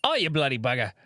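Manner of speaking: light mock-Australian grumble; American doing a rough Australian accent; bad Australian accent. Shown as a demonstration. Host demos the goat mascot's voice, bad Australian accent. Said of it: "American version of an Australian accent".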